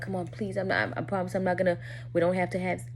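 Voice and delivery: softly retold pleading, under the voice; imitated begging. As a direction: plead quietly, as he did. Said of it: "He's begging me".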